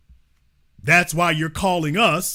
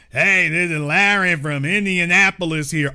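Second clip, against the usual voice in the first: mock Larry intro. Mocking Larry calling in from Indianapolis, put-on voice. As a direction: introduce yourself as the hick caller.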